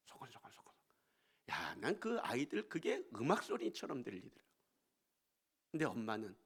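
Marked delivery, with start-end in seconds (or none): 0.1-0.7 soft voiceless whisper demo. Shown as a demonstration. Preacher showing how to speak dialect, a tiny whisper. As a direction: show how to talk very softly. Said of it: "그러니까 작게 얘기하세요".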